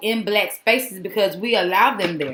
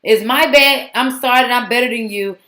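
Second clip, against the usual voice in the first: louder mock apology, lightly voiced; 2 semitones higher, 6 dB louder than usual. Vlogger parodying an actress's apology, mock-sorry and louder. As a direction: imitate an apology with a boastful edge. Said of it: "it sounds like she was saying".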